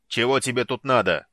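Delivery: loud rough monster snarl; draconid bark. Acted. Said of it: "рявкнул Базак". (рявкающий дракониd)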